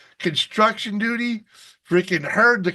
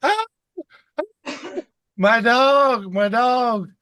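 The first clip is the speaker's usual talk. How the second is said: higher-pitched mock scream of alarm; retold cry of alarm, pitched up; imitated screaming; 6 semitones higher, slower than usual. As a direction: imitate a woman crying out in distress. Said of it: "we hear this woman screaming".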